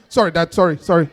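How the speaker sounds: lightly acted sheepish child; mock meek apology. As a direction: backpedal like a kid caught out. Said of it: "As soon as your dad comes in".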